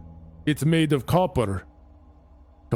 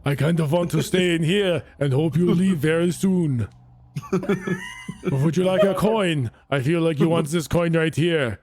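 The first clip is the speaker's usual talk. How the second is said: put-on Austrian accent. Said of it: "why is he turning Austrian?".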